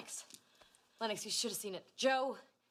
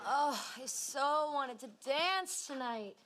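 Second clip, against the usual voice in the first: put-on old Southern woman; 5 semitones lower, slower than usual. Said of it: "sounding like a singer".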